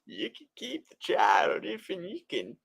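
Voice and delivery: high, shrieking goblin demand; shouting imp voice. Pretend. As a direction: cry out like a greedy imp. Imp repeats bargain, shouting.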